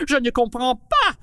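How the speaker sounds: ordinary delivery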